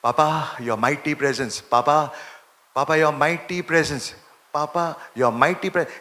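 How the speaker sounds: slow, devout calling of Papa; slow tender prayer. Shown as a demonstration. Preacher demonstrating slow loving prayer to Papa. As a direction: pray it slowly, lovingly. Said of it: "જે ઘડીએ હું આમ બોલું છું".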